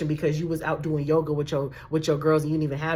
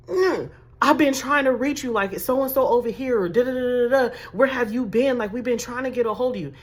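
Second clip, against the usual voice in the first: higher, mildly agitated scolding; exasperated urgency, a bit raised; urgent caller; 5 semitones higher than usual. Acted. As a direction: act out someone who has been trying to reach you.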